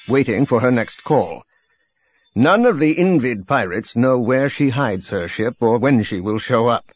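measured intelligence briefing; brief them formally, with a hint of a military officer; lightly voiced general. General briefing a pilot on pirates, lightly voiced formal officer.

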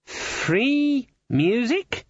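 high, slow, drawn-out disbelief; outraged Mister Cleet, voice pitched right up; indignant growl. A narrator's reading. Guild boss scoffing at free music, indignant growl. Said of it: "Mister Cleet growled".

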